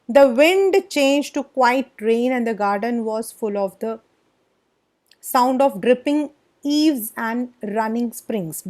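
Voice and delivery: slow, measured read-aloud; story narration. A narrator's reading. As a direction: read the English text out slowly, phrase by phrase. (धीमी गति से कहानी का पाठ)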